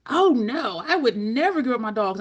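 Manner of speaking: mild mock yell of his message; imitated yelling. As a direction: re-enact the all-caps protest lightly. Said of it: "almost the entire message was caps".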